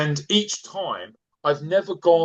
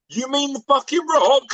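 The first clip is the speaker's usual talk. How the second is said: much higher and a bit louder, in disbelief; incredulous outburst; 11 semitones higher, 3 dB louder than usual. Retold or imitated. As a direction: fire it back, stunned they don't know. Incredulous retort to a friend.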